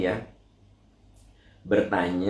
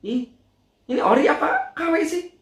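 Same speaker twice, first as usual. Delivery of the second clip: much higher, squealing busybody; nosy gossip; 14 semitones higher, 3 dB louder than usual. Retold or imitated. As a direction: gush then pry about the bag. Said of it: "nggak bisa gitu nahan untuk nanya". (suara kepo melengking tinggi)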